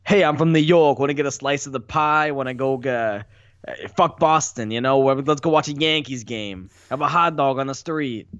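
a hammed-up, lightly put-on New York accent. Podcast guest showing off his New York impression, hammed-up New York accent. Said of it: "I can impersonate a, a good New Yorker".

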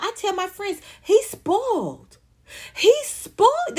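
high, drawn-out boast; mocking doting girlfriend.

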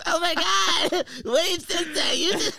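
put-on high-pitched, drawn-out gushing white girl, laughing; mock a white girl squealing over him; hammed-up white girl through laughter; white girl impression. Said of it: "I can see a white girl".

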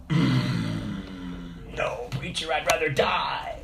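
grudging, softened mock protest; mock refusal. Congregant refusing the preacher's advice, mock-stubborn. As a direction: act out a stubborn refusal, lightly.

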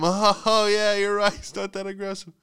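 high, mock-agreeable laughing voice; fake fellow-owner chuckle. Humouring another dog owner, high fake chuckle. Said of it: "that fellow dog owner chuckle".

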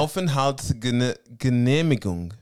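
slow, halting sight-reading; stumbling slowly through a long German word; sounding out. Real, not acted. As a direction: feel your way through Aufenthaltsgene-, Genehmigung in pieces.

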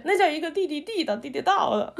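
playful Beijing tongue twister; stumbling Beijing-style 地道; Beijing accent. Retold or imitated. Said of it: "特别喜欢学北京话".

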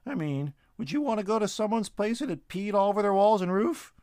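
high, bright-voiced squirrel rattling off chores; Shorty the squirrel telling his friend about his day; chatty squirrel. A narrator's reading. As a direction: play a cheeky little squirrel. Squirrel character arguing.

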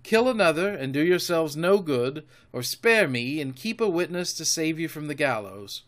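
mounting boast with punched emphasis; excited defiance. A narrator's reading. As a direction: throw it proudly in the pirates' teeth. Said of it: "by this time I was quite excited".

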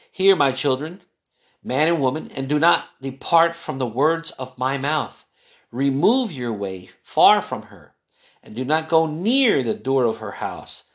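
put-on a solemn Bible reading to a child; scripture reading. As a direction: read the verses steadily, like scripture. Reads Proverbs aloud.

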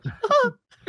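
high, breaking into real laughter; laughing. Real, not acted. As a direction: laugh through the words as the joke lands. Both laughing at the image.

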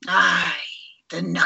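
tentative Scottish accent, breaking off; attempted Scottish accent. Shown as a demonstration. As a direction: try Scottish without much confidence. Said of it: "I can't do it unless I hear someone".

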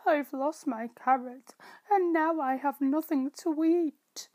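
a rabbit complaining about his loss; upset rabbit. Acted. Rabbit answers the mouse.

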